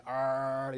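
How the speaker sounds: dog's warning growl done as a long R; imitated dog growl. Teacher likens R to a dog wary of strangers, imitated growl. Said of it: "개가 낯선 사람을 경계할 때".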